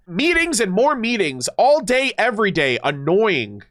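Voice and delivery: exasperated grumble, punching the words then dropping; grumbling. Acted. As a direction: complain like you're rolling your eyes. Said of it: "she would roll her eyes and grumble as always".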